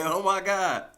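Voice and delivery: high, loud, laughing panic; a giggly imitation of coworkers panicking; laughing mock panic. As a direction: play the office freaking out through laughter. Everyone panicking at the smoke.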